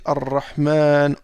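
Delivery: slow "Ar-Rahman" with long alif; slow careful reading. Shown as a demonstration. Teacher reading the Quran word to students, slow and careful. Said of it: "c'est pareil dans le Coran".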